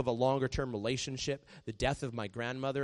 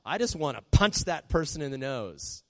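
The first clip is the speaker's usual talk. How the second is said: frustrated prayer; 3 semitones higher, 5 dB louder than usual. Shown as a demonstration.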